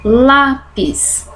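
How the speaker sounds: "Lápis" with a long, strong LÁ; drawn-out LÁ in "Lápis"; stress on penultimate syllable. Shown as a demonstration. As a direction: lean on the first syllable of "Lápis". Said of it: "tenho a penúltima".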